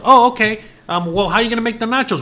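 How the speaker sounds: lightly hammed eager husband; mock husband. Husband asking wife about nachos, loud and eager.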